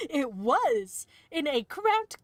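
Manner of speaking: laughing through the words; slow, giggling read. Real, not acted. Laughs at own misreading.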